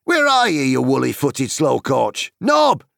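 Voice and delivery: high, loud scolding holler; impatient shout. A narrator's reading. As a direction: bellow for a dawdling servant. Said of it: "he shouted".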